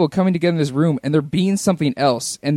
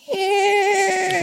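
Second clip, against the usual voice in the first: unimpressed grunt. Retold or imitated.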